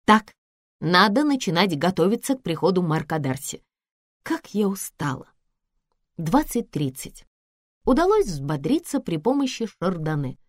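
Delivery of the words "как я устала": soft, tired sigh of words; quiet, drained complaint; weary. Acted. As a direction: say it worn out. Weary at evening.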